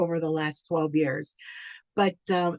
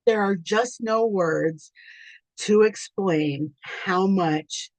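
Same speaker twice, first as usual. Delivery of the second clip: choking up; slower than usual. Real, not acted. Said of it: "I'm already getting emotional".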